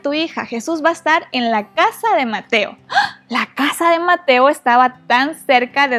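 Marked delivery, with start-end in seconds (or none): 0.0-2.8 high, eager calling of Jairo's name; excited messenger. Acted. A man at Jairo's door, bursting with good news, calling out excitedly. 2.9-3.2 a sudden, very high gasp of surprise; surprised gasp. Acted. Storyteller gasping in surprise at the news for Jairo.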